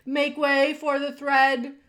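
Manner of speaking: town-crier style shout; crying out. A narrator's reading. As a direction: call out to clear the way. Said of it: "cried a mouse".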